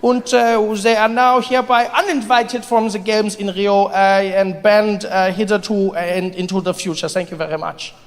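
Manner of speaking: put-on formal, accented committee announcement; Olympic Committee official. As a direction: read out a ban like a stiff official. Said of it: "We here at the Olympic Committee".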